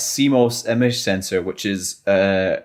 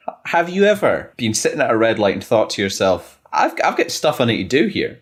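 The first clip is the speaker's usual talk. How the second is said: salesman voice. Pretend. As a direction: pitch it like a keen salesman. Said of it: "salesman voice on".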